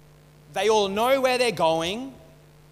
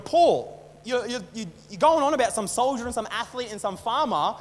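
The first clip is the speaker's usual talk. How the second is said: frustrated retelling; 3 semitones higher than usual. Retold or imitated. Reader challenging Paul over his riddles, frustrated. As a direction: take Paul to task in mock frustration. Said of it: "it can be frustrating".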